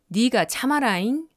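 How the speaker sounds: gentle Jeolla lilt with 잉 at the end; Jeolla dialect. Shown as a demonstration. Narrator demonstrating Jeolla endings to learners, gentle Jeolla accent. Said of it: "문장 끝에 잉을 붙이거나".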